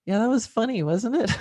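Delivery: fond laughing tease to a sick horse; laughing fondly. Real, not acted. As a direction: chuckle it out to the horse. Teasing her horse with memories.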